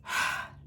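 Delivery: quick voiced sigh out; a brief sigh, not the right way; short sighing exhale. Shown as a demonstration. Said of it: "So it's not like a".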